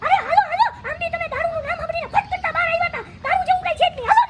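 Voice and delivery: high, put-on coaxing voice; mock sweet coaxing. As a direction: sweet-talk him inside, sing-song. Coaxing drunk inside. (ઊંચા મીઠા અવાજે મનાવવું)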